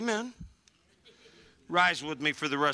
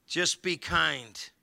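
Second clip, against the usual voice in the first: slow and deliberate; much slower than usual. Shown as a demonstration. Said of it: "this is what I tell my family".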